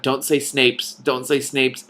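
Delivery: slow, laughing repeat of the thought she had; mock panicked self-warning. Reader quoting her own inner voice, through laughter. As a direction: replay the inner warning while cracking up. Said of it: "I just had this thought".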